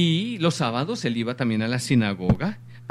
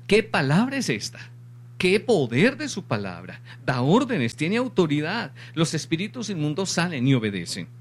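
raised-pitch marveling crowd; imitated amazement; 4 semitones higher than usual. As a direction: exclaim like astonished onlookers, pitch leaping at the start. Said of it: "Todos se asombraban, claro". (asombro imitado de la gente)

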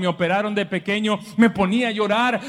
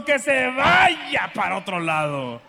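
indignant shout; slower than usual. Retold or imitated. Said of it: "la mujer que yo tengo".

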